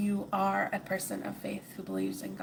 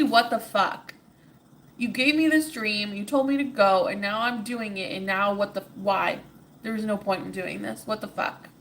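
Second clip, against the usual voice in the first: louder, exasperated cry at the heavens; retold yell at the sky; 5 dB louder than usual. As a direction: throw the question up at the sky in frustration. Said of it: "Ordinary yelling at the sky and saying".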